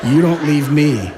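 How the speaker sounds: loud, high, laughing demand; clingy demand. Retold or imitated. The needy self commanding the new acquaintance, loud and laughing. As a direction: insist with a manic laugh. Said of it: "vibrationally it might be".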